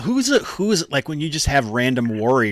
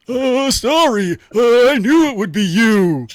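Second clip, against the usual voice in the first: shouting back; 8 semitones higher, 6 dB louder than usual. Acted. Game master as an enemy shouting back to Astari, hammed-up shout. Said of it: "he shouted back".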